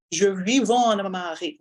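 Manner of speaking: Acadian accent. Shown as a demonstration. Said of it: "I'm gonna exaggerate a little bit today".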